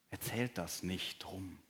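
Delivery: soft, slow, hushed warning; hushed instruction. Acted. Jesus quietly telling the healed man to keep silent, hushed. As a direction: quietly tell them to keep it secret.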